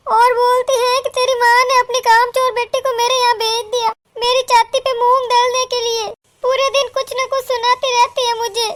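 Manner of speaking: hint of a distraught daughter threatening to leave; daughter rising to despair. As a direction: pour out grievances until near tears. Daughter builds to threatening suicide.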